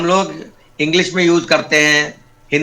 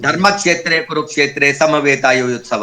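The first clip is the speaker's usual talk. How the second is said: Sanskrit recitation. Shown as a demonstration. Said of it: "का का भी उसमें टिन जाना चाहिए".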